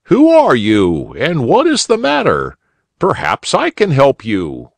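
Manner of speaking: calling out. A narrator's reading. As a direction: lift the voice to reach the bush. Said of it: "he called".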